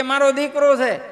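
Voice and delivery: insistent mother. Acted. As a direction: Yashoda firmly claims her son. Yashoda insists.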